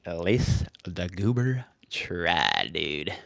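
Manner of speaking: whispered aside, slow. Real, not acted. Streamer whispering a self-mocking aside about himself. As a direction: hush it like a secret joke.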